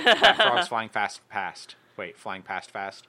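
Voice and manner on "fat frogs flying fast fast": slow careful. Shown as a demonstration. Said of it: "slow attempt, louder".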